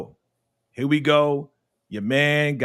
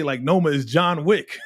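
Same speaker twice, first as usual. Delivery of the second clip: excited. Retold or imitated. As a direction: hype it up. Retold friend's excited line.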